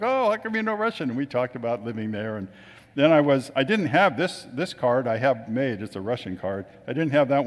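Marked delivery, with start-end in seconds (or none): 0.0-1.1 high-pitched imitation of pleasant astonishment; retold surprise. Russian couple hears him speak their language, imitated surprise. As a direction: act out their surprised question, pitched well up.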